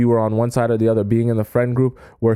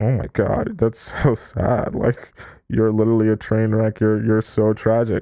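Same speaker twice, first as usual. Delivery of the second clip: condescending, snide sneer with fake pitying sympathy. Acting out people who laugh at someone desperate for approval: imitating snickering mockery. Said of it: "everyone just kinda snickers to themselves and go".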